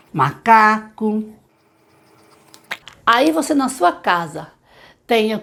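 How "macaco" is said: MACACO drawn out syllable by syllable; very slow, deliberate word; slow word reading. Shown as a demonstration. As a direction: stretch each syllable for a beginning reader. Reads out simple beginner words.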